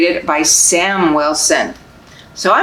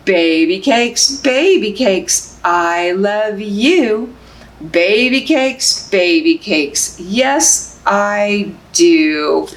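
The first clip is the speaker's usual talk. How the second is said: slow, sing-song picture book reading; reading to babies; slower than usual. Acted. Librarian reading Baby Cakes to babies, sing-song. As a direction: lull them along, gently rhythmic.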